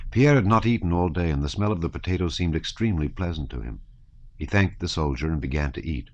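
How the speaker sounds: ordinary delivery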